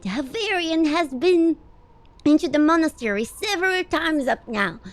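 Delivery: lightly voiced old wizard; old man voice. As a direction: read it as a wise old man. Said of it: "my old man voice".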